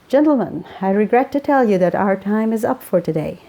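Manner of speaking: lightly voiced Welsh lilt, formal sign-off; a gentle Welsh accent, like a radio host closing the show. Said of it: "His Welsh accent".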